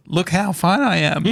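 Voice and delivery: laughing, exaggerated tipsy boast; mock drunk bragging. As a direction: mimic a drunk insisting she's fine. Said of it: "your drunk version is".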